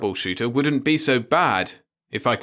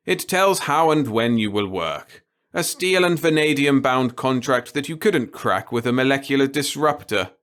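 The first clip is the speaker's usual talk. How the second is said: put-on gleeful old boss; 4 semitones higher, 3 dB louder than usual. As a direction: savour every word of it. The boss voiced in story.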